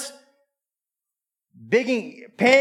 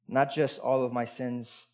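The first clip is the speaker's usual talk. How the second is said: ordinary talk, nothing marked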